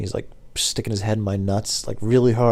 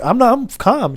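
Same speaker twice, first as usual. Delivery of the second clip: high, loud mock protest; protesting calmness; 13 semitones higher, 5 dB louder, slower than usual. Driver answering customer's girlfriend, raised high-pitched protest. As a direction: insist on calm while raising your voice.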